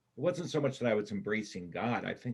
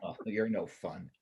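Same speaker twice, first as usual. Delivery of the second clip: laughing protest. Acted. Laughs at her teasing.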